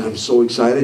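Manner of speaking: mock deadpan "excited"; unenthusiastic excitement. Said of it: "Notify your face?".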